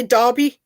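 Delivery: "Derby" pronounced DAR-bee. Shown as a demonstration. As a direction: say "Derby" with an ah in the first syllable. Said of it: "The E would be classed as an A".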